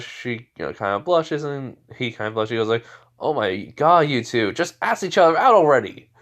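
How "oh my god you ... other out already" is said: loud, raised-pitch exasperation; playful outburst of impatience; exasperated. Acted. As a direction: scold the shy pair, fed up. Friend fed up with blushing pair.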